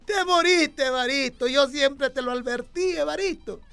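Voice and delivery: hammed-up wailing at a wake; a mourner's hammed-up crying over the coffin; mock sobbing. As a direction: lament your friend with a mock sob. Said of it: "Y lloraba y decía".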